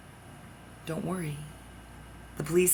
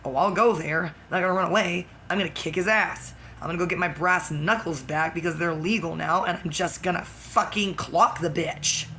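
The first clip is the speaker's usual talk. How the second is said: defiant resolve; 3 dB louder than usual. Retold or imitated. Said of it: "and I thought".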